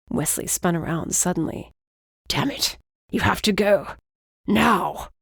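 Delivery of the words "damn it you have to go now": sudden alarmed shout to flee; urgent warning. Acted. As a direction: warn her to run, urgently. Wesley urgently warns Mercy to flee.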